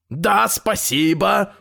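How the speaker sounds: slow, sighing acceptance; weary sigh. A narrator's reading. Exhausted grandfather accepts coffee from tailor, weary sigh. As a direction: accept with a drawn-out, worn-out sigh. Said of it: "вздохнул дедушка и, обессиленный".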